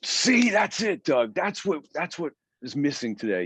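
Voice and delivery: slow, high, emphatic mentor; lightly voiced mentor, slow and insistent; imitating Andy. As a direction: drag it out like a wise old producer. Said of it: "And he".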